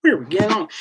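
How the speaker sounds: no voice, just breath; whispered repeat. Real, not acted. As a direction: whisper the question to himself. Repeats the question under his breath.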